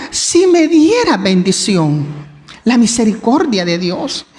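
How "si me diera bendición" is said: slow, gentle "si me diera bendición"; humble plea. Retold or imitated. Jabes humbly asks God for blessing, slow and gentle.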